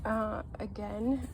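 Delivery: blocked nose from a cold; stuffy nose. Real, not acted. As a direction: talk through a stuffed-up nose. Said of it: "I sound a bit stuffy".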